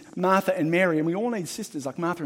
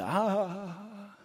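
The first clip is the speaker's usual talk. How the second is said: mock guffaw, ah ah ah fading off; imitating big laughter; 4 semitones higher, 5 dB quieter than usual. Preacher mimicking a TV commentator's laughter, mock guffaw. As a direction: ham up a commentator's laugh lightly. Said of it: "this big laughter".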